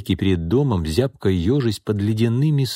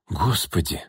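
horrified; 3 semitones lower, 5 dB quieter, slower than usual. A narrator's reading. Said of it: "ужаснулась Настя".

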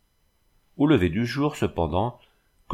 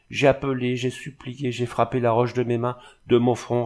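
récit désespéré; 3 semitones higher than usual. Acted. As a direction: plead through each effort, pitch raised. Jeanne raconte ses efforts désespérés. (énumération éplorée, voix plus haute)

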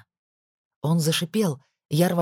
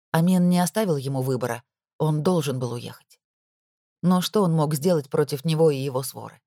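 usual speaking voice

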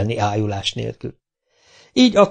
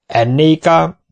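whoop; 5 semitones higher, 5 dB louder, slower than usual. Acted. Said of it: "kurjantott a vitéz".

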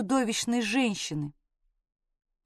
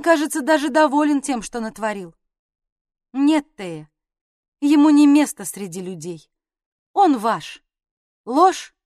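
contemptuous outburst; 3 semitones higher, 4 dB louder than usual. Acted.

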